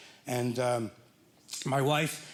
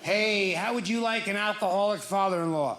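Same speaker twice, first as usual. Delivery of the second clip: laughing mock pitch; 3 semitones higher than usual.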